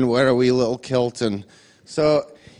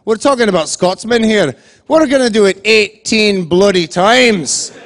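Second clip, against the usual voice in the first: proud boast; 5 semitones higher, 5 dB louder than usual. Retold or imitated. Charlie's proud Scottish boast.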